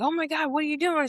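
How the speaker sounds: high, fast alarmed question; mock panic, rushed and high-pitched; imitated freaking out. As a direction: act out shocked onlookers. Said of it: "freaking out, like".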